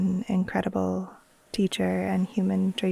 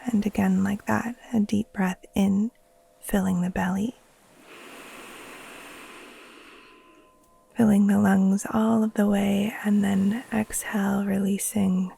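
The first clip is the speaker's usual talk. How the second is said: guided meditation. Acted. Teacher guiding listeners to settle in and breathe, calm meditation voice. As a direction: ease them gently into rest, leaving space between phrases.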